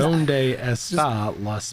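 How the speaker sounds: put-on slow American-accented Spanish; hammed-up American accent. Mocks bad foreign accent, like Konnichiwa.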